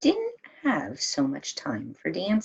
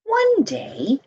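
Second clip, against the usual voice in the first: whisper; 8 dB louder than usual. A narrator's reading. Story opening whispered for suspense.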